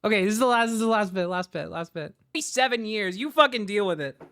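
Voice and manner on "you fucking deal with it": ordinary talk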